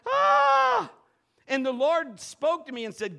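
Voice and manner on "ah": sudden high screaming cry; high shout. Retold or imitated. Worshippers at camp crying out, high shout. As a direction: let out a piercing high yell. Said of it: "people just going".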